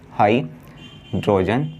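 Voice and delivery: हाइड्रोजन drawn out very slowly, rising; slow drilled naming. Shown as a demonstration. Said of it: "लिख दिया हमने हाइड्रोजन". (हाइड्रोजन बहुत धीरे, खींचकर)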